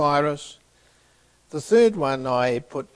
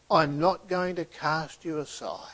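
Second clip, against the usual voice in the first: tender whisper; whispered reassurance; 3 dB quieter than usual. Acted. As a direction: whisper it gently to comfort him. Jesus reassures fallen Peter.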